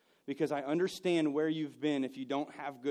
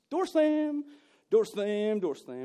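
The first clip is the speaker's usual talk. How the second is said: loud, high repeated door slam; mock door slams; 6 semitones higher, 5 dB louder, much slower than usual. Preacher mimicking family door slams, loud. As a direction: act out angry slamming doors. Mimics slamming doors growing up.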